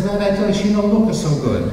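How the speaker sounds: put-on a worried seller's warning in an Italian accent. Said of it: "an Italian couple in southern Italy".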